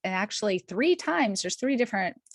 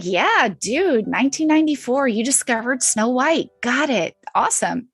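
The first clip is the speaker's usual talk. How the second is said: mock triumph; 4 semitones higher, 6 dB louder than usual. Acts out her excited past reaction.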